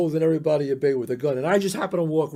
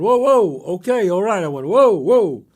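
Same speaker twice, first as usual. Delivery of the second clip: placating whoa; 2 semitones higher, 7 dB louder than usual. Retold or imitated. Gun pulled, calming the robber.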